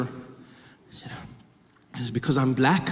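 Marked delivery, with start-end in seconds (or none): none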